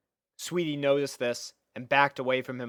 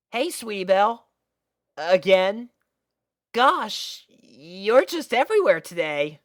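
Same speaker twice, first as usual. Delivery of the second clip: put-on lightly raised, easygoing boy voice; a hint of a boyish friend; casual young dragon; 8 semitones higher, 5 dB louder than usual. Young dragon casually greeting his friend, easygoing boy voice.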